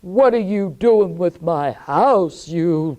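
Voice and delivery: put-on little old woman catching the children at her house; stern old woman. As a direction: challenge the children sharply.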